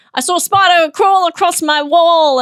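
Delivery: hammed-up Australian accent. Shown as a demonstration. Comparing with own voice, broader Australian accent. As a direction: push the Australian accent harder. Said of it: "Are you hearing that as well?".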